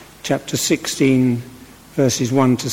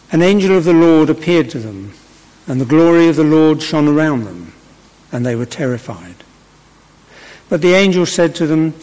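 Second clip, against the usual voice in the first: measured, projected church reading; scripture reading; 2 semitones higher, 4 dB louder than usual. Acted. Reader addressing a church congregation, formal scripture reading. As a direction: read the Bible passage out clearly to the congregation.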